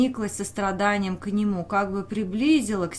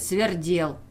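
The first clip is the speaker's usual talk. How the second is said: mocking close; 2 semitones lower than usual. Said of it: "как бы издевался".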